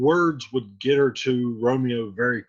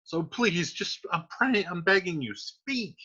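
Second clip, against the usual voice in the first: begging; 3 semitones higher than usual. Acted. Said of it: "she's like".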